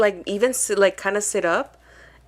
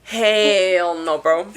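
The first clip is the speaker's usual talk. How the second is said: loud, repeated hell-no protest; horrified refusal; 6 dB louder, much slower than usual. Retold or imitated. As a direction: shout no, no, no in disgust. Acting own horrified refusal.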